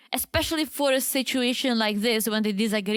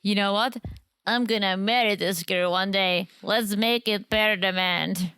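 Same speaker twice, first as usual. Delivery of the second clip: put-on upstate New York accent; 2 semitones lower than usual. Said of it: "That was my upstate New York accent".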